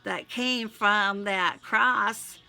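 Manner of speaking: pleading, prayerful read; heartfelt prayer. Acted. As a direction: pour it out to God in prayer. Spoken prayer to God.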